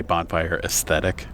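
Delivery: "aesthetic" said with a TH in the middle; "aesthetic" as es-THET-ik, for ascetic; mispronunciation shown. Retold or imitated. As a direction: say "bonfire aesthetic" as people misread it. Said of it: "There isn't a T H in that word".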